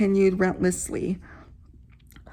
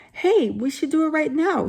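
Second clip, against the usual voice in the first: eager; 7 semitones higher than usual. Acted. Arnold eager to summon ghost.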